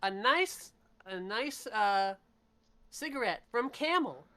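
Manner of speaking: put-on upbeat old-time cigarette pitch; chipper 1950s ad. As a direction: sell it like a vintage commercial. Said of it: "presenting it in a commercial".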